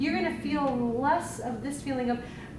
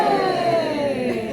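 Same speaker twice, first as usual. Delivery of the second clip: shout; 6 dB louder than usual. Real, not acted. Group wave crescendo, calling out.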